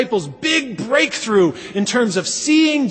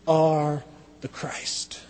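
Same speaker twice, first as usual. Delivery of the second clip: slow, awed whisper; a reverent half-whispered confession; hushed confession; 5 semitones lower, 7 dB quieter, much slower than usual. Acted. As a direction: breathe the words out like a secret. Peter's hushed confession of Jesus.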